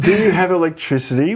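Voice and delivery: mock naive outsider, laughing; laughing mock question. Mocking American perception.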